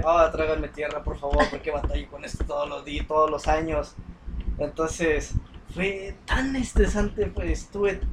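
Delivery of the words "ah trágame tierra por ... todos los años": maestra resignada. Retold or imitated. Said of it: "Las maestras de".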